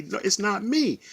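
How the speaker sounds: high, tearful protest; crying denial. Retold or imitated. To the union rep, crying and pleading. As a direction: insist through tears it wasn't you. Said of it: "I'm crying and saying".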